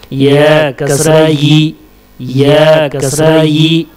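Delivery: measured, level-pitched chant of letter names; spelling drill recitation. Shown as a demonstration. Teacher drilling Arabic letters with kasra for learners, measured recitation. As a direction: recite letter, vowel sign, syllable in even beats.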